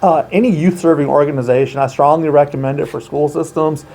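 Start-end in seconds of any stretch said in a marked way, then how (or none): 1.8-3.8 "strongly" given clear emphasis; stress on strongly. Real, not acted. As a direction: lean on the word "strongly". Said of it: "I emphasize that word strongly".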